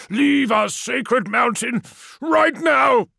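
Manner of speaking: high, slow, elated trembling yell; quavering shout. A narrator's reading. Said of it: "His voice quavered, rich with giddy elation".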